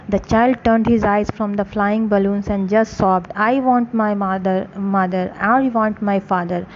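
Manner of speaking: slow, careful read-aloud for a class; story narration. A narrator's reading. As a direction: read each phrase slowly for students. Slow English story reading.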